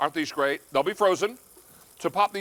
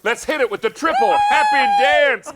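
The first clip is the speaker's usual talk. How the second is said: excited hype; 6 semitones higher, 6 dB louder than usual. Real, not acted. Host calls for celebration dance.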